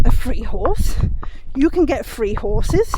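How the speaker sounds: slow, amazed disbelief. Retold or imitated. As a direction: marvel at the idea, slowly. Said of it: "I'm like".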